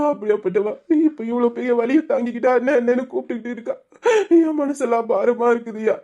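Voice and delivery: choked, tearful brother. Acted. Brother weeping over his sister in labor, tearful. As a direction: voice heavy with tears, pleading.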